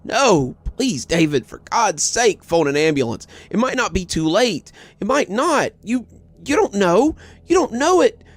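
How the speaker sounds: high, cracking desperate shout; voice breaking shout. A narrator's reading. Mother shouting back at husband, voice breaking. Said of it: "Her voice broke as she shouted back".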